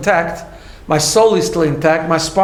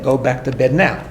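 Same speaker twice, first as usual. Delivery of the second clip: calm, firm, a touch lower; calm and assertive; 5 semitones lower than usual. Shown as a demonstration. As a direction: set a firm bedtime limit without heat. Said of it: "very calmly and assertively saying".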